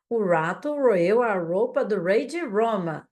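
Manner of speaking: each word laid out slowly and clearly; a tongue twister read slowly for students to copy. Shown as a demonstration. Teacher reading a tongue twister to students, slow and deliberate. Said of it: "Tenta falar essa".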